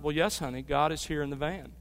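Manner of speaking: put-on soft, patient reply to a small child; a mother's hushed, reassuring answer; gentle mother. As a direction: answer the little one softly and patiently.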